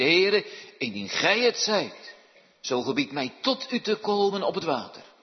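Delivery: Peter pleading. Acted. Peter calling to Jesus from the boat, pleading. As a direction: call across the water to Jesus.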